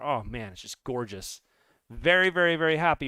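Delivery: ordinary talk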